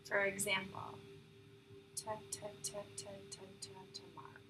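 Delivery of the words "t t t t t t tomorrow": soft relaxed t, t, t; easy stuttering. Shown as a demonstration. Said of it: "called easy stuttering".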